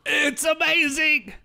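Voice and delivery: high, loud excited squeal. Real, not acted. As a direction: gush with sudden delight. Gushing about a game.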